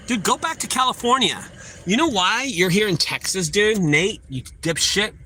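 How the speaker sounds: Texan vlogger railing at a Californian gamer, angry; heated rant. Real, not acted. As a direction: tell the outsider to get lost.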